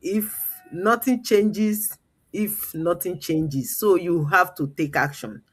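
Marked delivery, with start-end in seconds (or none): 0.0-3.8 slow emphatic quote; quoted slow saying. Retold or imitated. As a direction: stress on nothing. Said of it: "my grand coach said".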